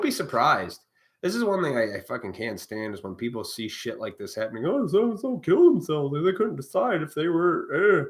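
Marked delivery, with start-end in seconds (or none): 4.7-8.0 high, loud mock gasp of shock; mocking whiny voice. Mocking people who are shocked by the news, high and loud. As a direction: parody a gullible person faking surprise.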